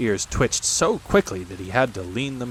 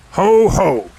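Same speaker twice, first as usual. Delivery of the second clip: gloating Heffalump; 8 semitones higher, 10 dB louder than usual. A narrator's reading. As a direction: gloat it out big. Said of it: "Heffalump, gloatingly".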